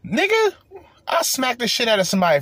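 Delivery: sudden mock fury; outraged exclamation. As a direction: explode at the very idea. Outrage at offered baked chicken.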